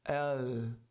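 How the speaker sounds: L that keeps sounding after the tongue touches; wrongly lingering L. Shown as a demonstration. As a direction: let the L ring on too long. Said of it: "senão vai soar assim".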